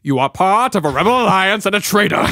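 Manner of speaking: a lightly done imperial villain voice; mild imitation of a stern British villain; Darth Vader. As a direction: try to sound like a menacing dark lord. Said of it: "You sound more like the British guy".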